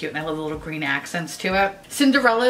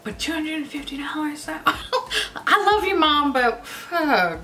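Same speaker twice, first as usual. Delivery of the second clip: laughing through tears; 7 semitones higher, slower than usual. Real, not acted.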